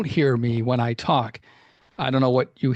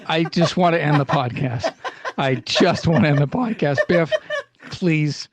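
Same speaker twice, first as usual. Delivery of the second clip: laughing. Real, not acted. Laughing plea to stop the bit.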